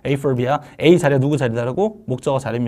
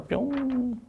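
high, soft rising "pyong"; light cartoon whoosh, very soft; playful "pyong" sound effect; 9 semitones higher, 12 dB quieter, much slower than usual. Shown as a demonstration. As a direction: zip off with a tiny, high-pitched pop. Playful whoosh to next page.

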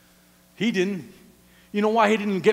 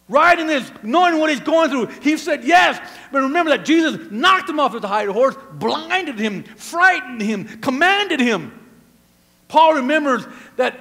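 raised, emphatic preacher's voice; punchy, insistent sermon delivery; forceful preaching; 4 semitones higher, 6 dB louder than usual. Acted. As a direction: drive each phrase home to the congregation.

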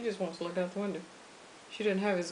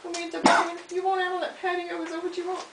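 raised, higher-pitched call; 8 semitones higher, 7 dB louder than usual. Real, not acted. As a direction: call over loudly to someone you care for. Calling to someone about the patio.

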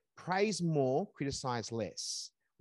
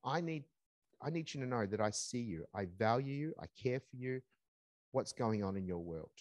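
soft, lower reassurance; tender reassurance to a child; reassuring parent; 3 semitones lower, 5 dB quieter than usual. Retold or imitated. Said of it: "but you're also saying".

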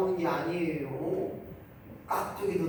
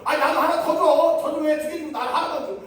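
much higher, louder grumbling demand; hammed-up greedy griping; mock whiny complaint; 12 semitones higher, 9 dB louder than usual. Acted complaint at sharing. (훨씬 높고 크게 투덜대며 조르는 흉내)

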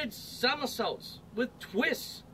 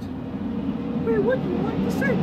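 high, slow lady at the check-in; counter lady; 7 dB louder, slower than usual. Acted. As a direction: lift up into a sweet airline clerk voice. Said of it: "The lady at the counter asked".

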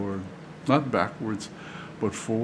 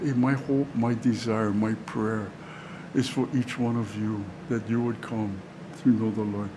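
gently lowered, earnest appeal; sincere desire; 4 dB quieter than usual. Acted. Paul telling his hearers his hope for them, sincere. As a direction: let the heartfelt wish settle softly. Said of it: "very probably sincere in his desire".

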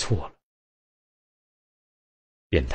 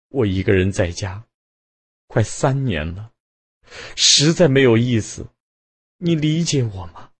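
rising, pleading through tears; wife crying to husband about her loneliness; tearful plea; 6 semitones higher than usual. A narrator's reading. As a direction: beg him to understand, voice climbing. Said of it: "卞太太一边哭".

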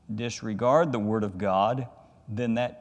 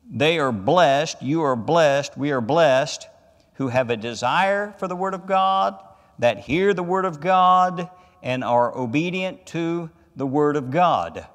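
raised, ringing declaration, each phrase driven home; emphatic preaching; 4 semitones higher, 6 dB louder than usual. Real, not acted. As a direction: proclaim it to the congregation with rising force.

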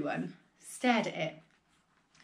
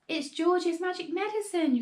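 high-pitched calling voice; raised call; 9 semitones higher than usual. A narrator's reading. Grandma explaining from the roof, high calling voice. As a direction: announce it from up high. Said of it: "Grandma shouted".

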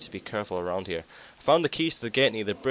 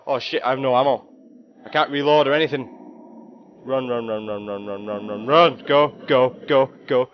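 high, loud frantic panic; panicking gamer; 4 semitones higher, 9 dB louder than usual. Real, not acted. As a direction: scramble and yell to flee. Attacked with no ammo.

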